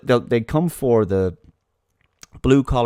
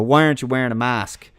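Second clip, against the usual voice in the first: mock nagging; 4 semitones higher than usual. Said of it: "scream at someone, go".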